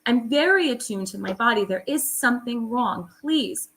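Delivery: retold plea to a doctor, mildly pleading; pleading insistence. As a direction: beg the doctor to listen, reliving it. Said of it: "I really had to beg".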